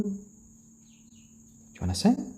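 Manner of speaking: slow, high whisper to the bird. Real, not acted. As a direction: hush it out slowly and gently. Coaxing chicken to sing.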